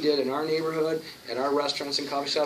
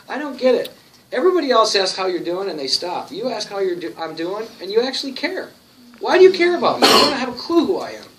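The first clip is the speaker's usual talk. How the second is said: higher and louder, climbing to an incredulous cry; stunned waitress; 6 semitones higher, 6 dB louder than usual. Retold or imitated. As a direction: imitate a baffled waitress whose voice keeps rising. Waitress Cheryl's stunned question.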